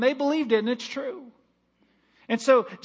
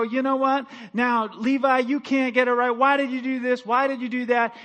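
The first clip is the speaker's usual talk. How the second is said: critical parent; 3 semitones higher, 4 dB louder than usual. Retold or imitated. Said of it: "I take this and I go".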